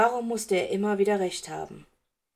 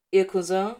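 a touch of surprise, a little louder; surprised; 6 dB louder than usual. A narrator's reading. Teacher hearing about the cousin, mildly surprised. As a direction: mildly caught off guard by the news. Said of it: "fragte Severus überrascht".

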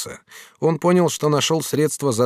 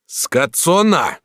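booming, drawn-out call of her name, higher; thundering voice; 8 semitones higher, 5 dB louder, much slower than usual. Acted. Jealous master thunders at Katrin, booming. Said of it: "вскричал Бенвенуто громовым голосом".

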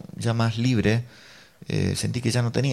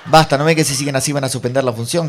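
loud mock yell, strongest at the start; retold shout; 2 semitones higher, 6 dB louder than usual. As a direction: act out a woman warning the room. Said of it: "gritó otra mujer". (grito imitado de advertencia)

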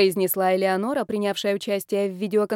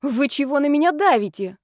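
raised, louder protest; indignant; 6 semitones higher, 4 dB louder than usual. Acted. The bride protests at her pushy family, indignant and loud. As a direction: push back, offended. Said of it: "возмутилась я".

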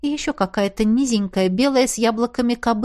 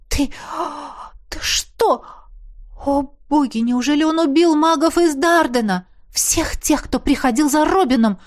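stunned disbelief; 5 semitones higher than usual. A narrator's reading. Shocked by the killings.

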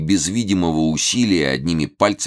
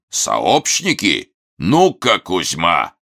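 loud, high barking order; loud command; 4 semitones higher, 4 dB louder, much slower than usual. A narrator's reading. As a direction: call the henchman in, loudly. Thug calls his henchman.

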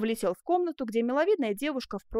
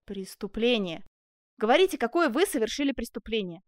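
even, unmoved official demand; impassive insistence. Acted. Jailer demands the crime from the prisoner, impassive. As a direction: repeat it without emotion. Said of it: "бесстрастно твердил тюремщик".

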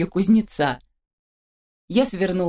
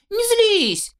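high, needy whine; whiny pleading; 8 semitones higher than usual. Acted. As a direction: beg for her attention in a high voice. Charles whining for attention.

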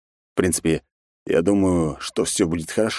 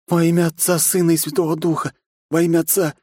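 higher, rapid frightened praying; babbling in a trance; 11 semitones higher than usual. A narrator's reading. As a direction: pray like you can't hear anyone. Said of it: "лепетал он, как будто в трансе". (лепет в трансе, выше обычного)

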